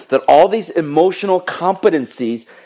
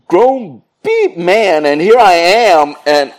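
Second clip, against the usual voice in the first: high, loud mock despair; exaggerated dismay climbing to a squeal; discouraged outburst; 7 semitones higher, 4 dB louder, slower than usual. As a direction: wail it in hammed-up disbelief, stretching the words. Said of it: "I was so discouraged 'cause I'm like".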